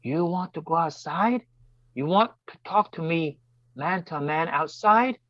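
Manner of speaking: slow, menacing dare; imitating a guy picking a fight; a touch of a tough guy squaring up; aggressive challenge. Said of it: "very aggressively says".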